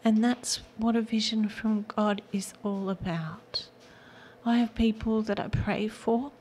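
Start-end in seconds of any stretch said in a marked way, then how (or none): 0.0-3.7 tearful whisper, pitched up; words catching as she fights tears; close to tears. Real, not acted. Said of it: "Now I'm gonna cry".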